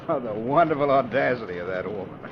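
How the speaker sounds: chuckling with delight; laughing. Acted. Mercer to his lawyer in the car, laughing gleefully. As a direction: laugh it out, pleased and amused.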